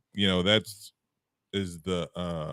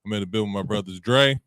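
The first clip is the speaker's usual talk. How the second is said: grand entrance announcement. Acted. Podcast intro hype.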